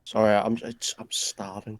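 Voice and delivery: talking while eating; words round a bite of food; mouth full. Real, not acted. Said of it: "let's let Kyle get his scran".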